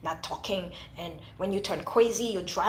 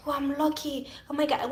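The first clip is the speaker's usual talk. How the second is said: lightly mocked woman, pitched up; imagined lucky woman; 5 semitones higher than usual. Some women imagine they would be lucky, lightly mocked. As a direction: imitate a woman thinking herself lucky, higher voice.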